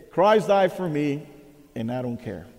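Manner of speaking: careless, offhand mock dare; cocky. The cocky student kneels at the altar, careless and offhand. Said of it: "he was cocky, he didn't care".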